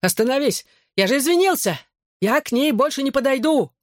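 high, desperate cries while running; frightened boy yelling for mercy; panicked pleading. A narrator's reading. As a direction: beg him to stop, voice up high. Bully pleads while being chased.

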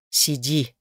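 a curt, cold order to stay put; clipped command. A narrator's reading. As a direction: rap out the word like a command. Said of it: "отчеканил муж таким тоном".

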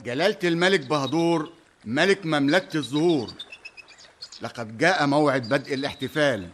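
formal royal announcement. Acted. يعلن بدء الاحتفال للملك.

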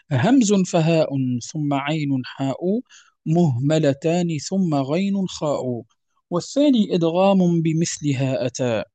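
measured, metrical recitation of a teaching poem; verse recitation. Acted. Teacher reading the tajweed verses to students, verse recitation.

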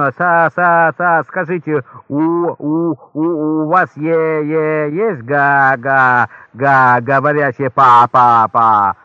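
heavy stammer, slow and halting; stutterer. Acted. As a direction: stammer through every word, slowly. Stuttering customer asks for parrot.

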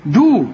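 دو with a thin, plain dal; light d. Shown as a demonstration. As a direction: demonstrate دو with a light d. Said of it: "شوف". (دال مرققة في دو)

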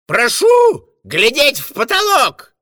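high, loud call. A narrator's reading. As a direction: announce it to the hall. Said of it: "крикнул".

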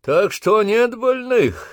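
very slow, high, loud irritated shout; angry demand. Acted. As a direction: growl it out in annoyance. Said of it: "рассердился Обух".

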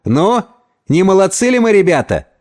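amazed rhetorical question to pals; marvelling. Acted. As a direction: marvel at your own success. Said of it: "удивлялся он сам".

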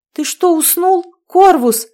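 high, loud shout. A narrator's reading. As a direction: yell his name to wake him. Louder call after snore.

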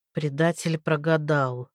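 low, slow and musing; thoughtful. Acted. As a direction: say it lost in thought. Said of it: "задумчиво произнёс Макар".

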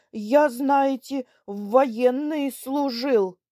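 loud, gruff, rising indignation; hot-tempered old soldier; heated anger. Acted. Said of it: "продолжал, разгорячаясь". (разгорячившись, сердито)

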